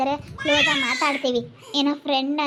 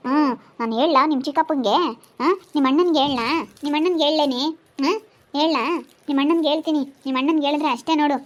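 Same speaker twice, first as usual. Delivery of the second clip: louder, insistent telling-off; scolding threat; 4 dB louder than usual. Acted. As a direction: warn her you will tell on her. Acted threat to tell brother. (ಗದರಿಸಿ ಬೆದರಿಸುವ ಧ್ವನಿ)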